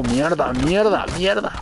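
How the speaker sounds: building curses. Real, not acted. El lobo se muere. (maldiciones cada vez más agudas)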